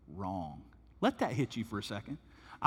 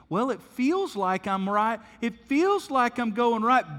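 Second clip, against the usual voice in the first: higher, louder and slow, hammed-up self-assurance; mock gut-trusting pilot; 9 semitones higher, 7 dB louder than usual. Preacher mocks a pilot steering through fog by feel, hammed-up and slow. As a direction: drag out feels like a pilot flying blind on instinct.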